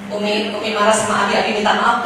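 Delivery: low, quick, soft coaxing; gentle apology. Acted. Husband asking his wife's forgiveness, gently apologetic. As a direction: coax her softly into opening up.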